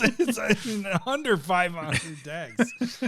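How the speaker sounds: slow, drawn-out teasing quote; mock slow quote. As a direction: stretch it out, teasing. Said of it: "I was not expecting you to go the".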